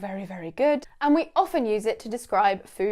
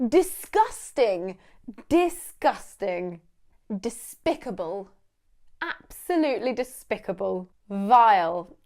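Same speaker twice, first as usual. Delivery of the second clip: disgusted; slower than usual. Shown as a demonstration. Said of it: "show absolute disgust".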